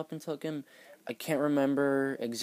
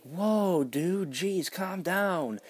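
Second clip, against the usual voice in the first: higher, taken-aback protest; mock defensive; 5 semitones higher than usual. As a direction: act innocent and wounded. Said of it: "she's got all sassy with me".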